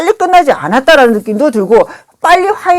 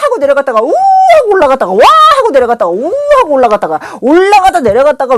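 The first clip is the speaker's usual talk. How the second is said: rollercoaster swings; 4 semitones higher than usual. Retold or imitated. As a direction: pitch swoops up high on 올라갔다가, drops on 내려갔다가. Acting out rollercoaster ups and downs. (롤러코스터처럼 음을 오르내리며)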